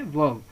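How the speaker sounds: "वर्ब" as "vub", silent R; model pronunciation. Shown as a demonstration. Teacher answers how it is pronounced, model pronunciation. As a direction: drop the R in "वर्ब", voice falling. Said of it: "इसको कैसे pronounce करते हैं".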